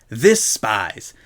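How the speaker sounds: "This spies" said as two words, this then spies; split word. Shown as a demonstration. The speaker mock-explaining, "This spies" split in two. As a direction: stress "This" then "spies" apart. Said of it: "the word we say like this".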